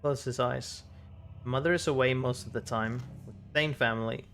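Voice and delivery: measured reading of game text; story narration. Acted. Reading a character's memory aloud, story narration. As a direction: read the story aloud evenly.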